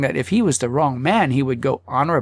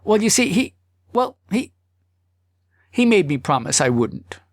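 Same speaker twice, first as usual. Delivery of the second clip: higher, stammering husband voice; hesitant husband; 6 semitones higher than usual. Acted. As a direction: fumble for words, stalling. Husband stammering under questioning.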